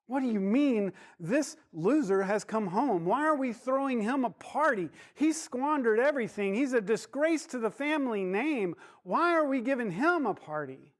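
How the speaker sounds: put-on the resentful older brother, fed up and outraged; angry older son. Older son protesting the party to the servant, angry. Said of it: "the older son is angry. He's mad".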